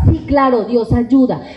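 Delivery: ordinary delivery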